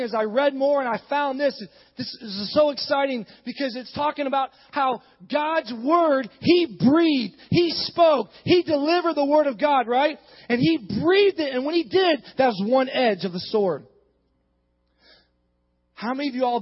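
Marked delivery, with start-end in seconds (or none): 2.0-13.9 emphatic, punched preaching cadence. Acted. Preacher excited about God's word, preaching. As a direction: drive each phrase home to the congregation.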